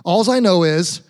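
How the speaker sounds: "Alls I know is" with an s on Alls; Midwestern phrasing. Shown as a demonstration. Pastor showing Midwesterners their accent, Midwestern phrasing. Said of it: "You have an accent here in the Midwest".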